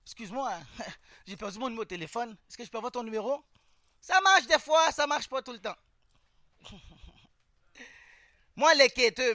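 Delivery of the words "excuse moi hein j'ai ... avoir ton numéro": smooth pickup line. Retold or imitated. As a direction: slip her the line quietly, half-joking. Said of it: "je suis comme". (réplique de drague douce et discrète)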